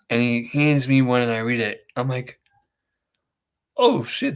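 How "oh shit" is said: retold shock. Reading the tickets, shocked.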